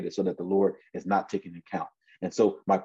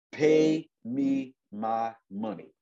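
slow, drawn-out demand in a raised pitch; 4 semitones higher, much slower than usual. Acted. Servant demanding payment from his debtor, insistent. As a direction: stretch out each word as an order.

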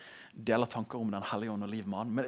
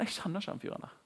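Peter in a put-on dialect, high whisper; frightened Peter disowning Jesus in another dialect; switched dialect; 9 semitones higher, 4 dB quieter than usual. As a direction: deny him in a faked dialect, pitched up and breathy. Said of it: "Og så bytter han dialekt nesten".

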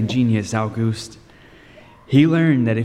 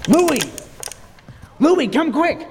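alarmed shout; slower than usual. Acted. Calling friend in alarm.

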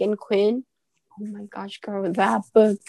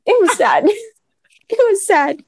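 laughing; 12 semitones higher than usual. Real, not acted. Laughing about crying over book.

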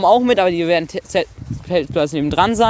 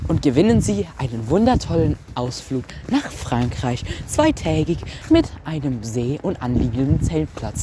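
infomercial; 2 semitones lower, 3 dB quieter than usual. Pretend. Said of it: "vernünftige Werbung machen".

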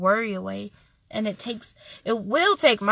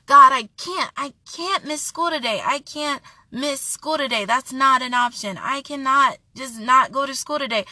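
retold angry protest; 3 semitones higher, 5 dB louder than usual. Late student protesting to God about missing school, mildly angry. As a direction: plead it insistently, lightly re-enacting the upset. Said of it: "I was, like, so angry".

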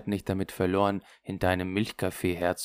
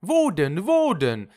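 high, loud repeated question; eager questioning; 11 semitones higher, 8 dB louder, slower than usual. Retold or imitated. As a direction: mimic someone eagerly looking about. Quoted Henri asks excitedly where. (aufgeregt nachgeahmtes Fragen)

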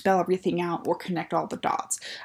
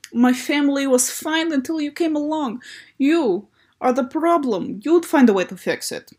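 hammed-up angry Belarus; 7 semitones higher, 4 dB louder than usual. Reading Belarus's angry dialogue.

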